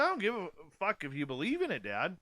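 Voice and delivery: high, fast, heated swearing; angry retort. Retold or imitated. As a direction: fire it back at dad quickly. Retold heated argument with dad.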